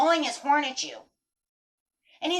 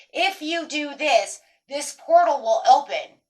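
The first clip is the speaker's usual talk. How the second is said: slow, louder promise of an opening portal; mysterious promise; 3 semitones higher, 6 dB louder, slower than usual. Pretend. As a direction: draw it out like a mystical promise. Universe's promise, voiced.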